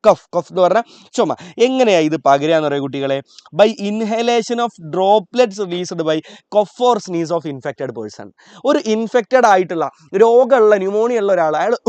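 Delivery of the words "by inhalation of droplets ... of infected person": very slow, each word set apart; slow dictation. Shown as a demonstration. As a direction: read it out slowly for notes. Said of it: "teacher dictates key answer".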